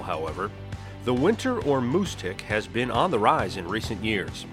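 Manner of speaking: documentary narration; nature documentary. Acted. Scripted podcast intro over music.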